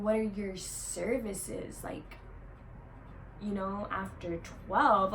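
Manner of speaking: slow, suggestive customer asking about services; lightly voiced creep, drawn out; sleazy customer voice. Bottle girl imitates a creepy customer asking about services, slow and suggestive. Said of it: "And he goes".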